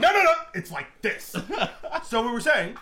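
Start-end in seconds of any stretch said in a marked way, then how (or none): 0.0-1.3 mocking imitation. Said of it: "with this motherfucker over here like".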